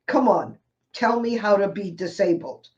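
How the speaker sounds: a wry, challenging plea said again. Real, not acted. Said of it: "You have to laugh".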